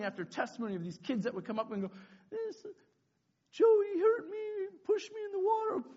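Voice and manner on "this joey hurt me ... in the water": put-on high, whiny crying-kid voice; mock tearful complaint. Hurt kid testifying in kangaroo court, tearful wail. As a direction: drag it out in a high pretend sob.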